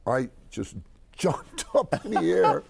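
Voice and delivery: high, loud, slow with laughter; overjoyed. Real, not acted. Telling how he met his hero, gleeful excited shout. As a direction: burst out in gleeful disbelief.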